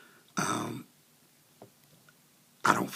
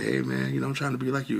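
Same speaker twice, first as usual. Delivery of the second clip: lightly imitated upbeat comeback, raised pitch; playful retold reply; 4 semitones higher, 3 dB louder than usual. Customer plays it off to the worker, playful. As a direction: play back his friendly banter a bit higher.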